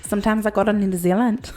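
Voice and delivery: badly faked New Zealand accent; botched New Zealand accent. Joking to co-hosts about New Zealand, botched accent. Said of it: "I can't even do a New Zealand accent".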